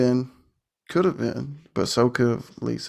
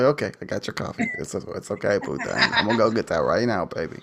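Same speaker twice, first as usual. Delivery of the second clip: mock fawning, eager to please; gushing over the boss with coffee; doting servant; 3 semitones lower than usual. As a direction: play the lovesick helper fussing. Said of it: "It's like".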